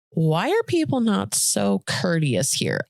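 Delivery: slow, politer rewording; slow down and make it nicer; saying it nicer. Shown as a demonstration. Toning down a complaint about shoppers, nicer. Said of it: "say that a little nicer".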